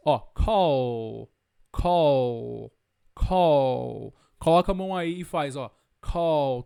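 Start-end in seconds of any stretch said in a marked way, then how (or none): 0.2-4.2 low, long drawn-out CALL; voiced ending. Shown as a demonstration. Teacher demonstrating the voiced end of CALL, drawn out and low. 6.0-6.6 low, long drawn-out CALL; voiced ending. Shown as a demonstration. Teacher demonstrating the voiced end of CALL, drawn out and low. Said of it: "Tá sentindo vibrar?".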